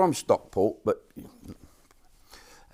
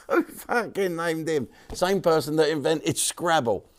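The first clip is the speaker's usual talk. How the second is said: laughing disbelief; 7 semitones higher than usual. Real, not acted. Mocking the actor's name.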